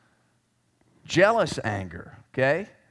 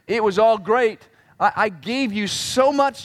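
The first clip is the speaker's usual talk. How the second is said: impassioned pleading; 4 semitones higher, slower than usual. Acted. Voicing God's plea to Jeroboam.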